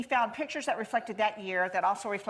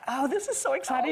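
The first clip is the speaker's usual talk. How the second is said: higher, lightly excited gush; mock excitement; 6 semitones higher than usual. Grandma waiting for the Valentine, light excited gush. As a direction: play up the thrill a little. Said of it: "And so I'm like".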